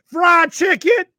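high loud blurted shout; shouted answer. Retold or imitated. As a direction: belt it out like the whole room is answering. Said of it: "he goes".

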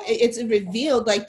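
usual speaking voice

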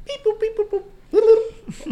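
high, mechanical beep boops; toy robot voice. Pretend. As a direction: chirp like a little toy robot. Making robot noises.

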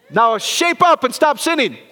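slow, loud mock scold; mock scolding preacher. Pastor mocking a preachy sermon, loud slow scold. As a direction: play the nagging preacher.

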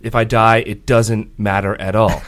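dramatic declaration. Pretend. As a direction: declare it like a tragic hero. Dramatic quote.

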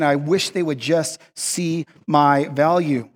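slow, word-by-word longing; frustrated wish. Acted. Overlooked person wishing to be valued, slow understated frustration. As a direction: spell out the wish slowly. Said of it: "there's that frustration".

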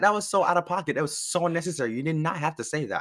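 exasperated disbelief. Retold or imitated. Replaying her outrage at aunt.

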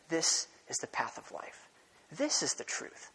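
hushed, secretive whisper of the tempter; serpent's whisper. Acted. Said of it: "whispering in humanity's ear".

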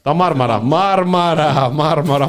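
mock calling out, long drawn-out vowels; μιμείται κάποιον που φωνάζει. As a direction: imitate someone crying out, stretching the word. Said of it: "φωνάζει ο άλλος". (μίμηση φωνής που καλεί συρτά)

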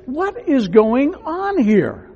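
mock outrage, drawn out; indignant leaders. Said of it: "those religious leaders say".

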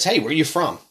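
mild imitation of a curious stranger; stranger's question. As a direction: lightly act out someone asking in passing. Acts out a stranger asking.

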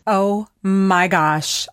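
slow, drawn-out awe; awed. Real, not acted. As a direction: let the awe sink in. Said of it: "I have goosebumps right now".

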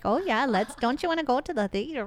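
lightly put-on Midwestern lilt; mock Midwesterner making a friendly invitation; joking Midwest accent. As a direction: play at a Midwest accent, pitch lifting. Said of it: "joking around and speaking with that accent".

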